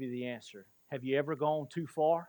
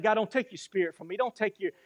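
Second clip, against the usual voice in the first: crying out; 4 semitones higher than usual. Retold or imitated. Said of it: "you're just crying out".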